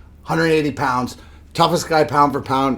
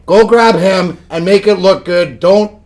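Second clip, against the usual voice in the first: coaching a teammate; 3 semitones higher, 7 dB louder than usual. Retold or imitated. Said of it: "I would be saying".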